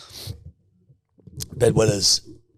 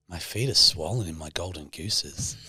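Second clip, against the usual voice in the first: soft, slow confiding murmur; imitated whisper; 7 semitones lower, 7 dB quieter than usual. Retelling Louisa whispering on the plane, hushed slow voice. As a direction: lean in and say it low and hushed. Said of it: "leans over and whispers to me".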